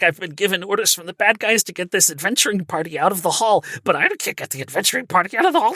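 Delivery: rising into high panic near the end; a lightly voiced nervous servant; nervous clerk. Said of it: "really nervous and be like".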